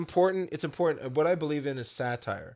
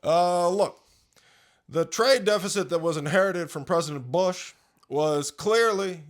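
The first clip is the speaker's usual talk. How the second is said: lightly voiced measured president with pauses; halting presidential cadence; Barack Obama impression; 3 dB louder than usual. Asked for Obama, slow paused presidential speech. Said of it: "Barack Obama".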